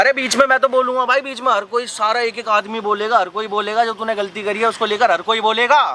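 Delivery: heated, high-pitched objection; indignant protest. Acted. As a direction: butt in and argue your right to speak. Argues over interrupting in acted quarrel.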